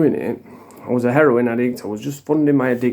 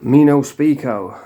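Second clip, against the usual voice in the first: slow, mock-foreign "Me no speako" with a flat fall; sarcastic put-on accent, "speako" drawn out; mocking broken English; slower than usual. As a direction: parody a suspect pretending to speak no English, slowly. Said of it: "he doesn't speak English until he needs some".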